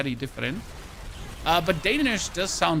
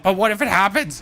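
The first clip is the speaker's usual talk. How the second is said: worried wife; 4 semitones higher, 6 dB louder than usual. Retold or imitated. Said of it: "my wife ... Just like".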